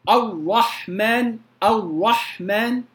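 الرحمن with the ر pressed hard and stopped, no tremor; ra held without trill. Shown as a demonstration. Teacher shows students the wrong hard ra, slowly. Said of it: "هذا خطأ".

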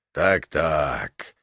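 deep, sung-out giant's "так-так"; deep bass giant voice; sonorous bass. A narrator's reading. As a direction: croon it low like a big brute. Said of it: "звучным басом пропел".

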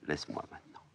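a little weary. Acted. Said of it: "soudain un peu lasse".

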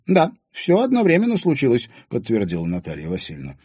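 put-on high, loud old woman's voice; old woman telling the past; reminiscing old woman. A narrator's reading. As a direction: recall old times.

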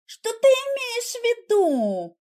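bewildered. A narrator's reading. Wife asks her husband, confused, what he means. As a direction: ask it as if thrown off balance. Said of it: "растерянно переспросила я".

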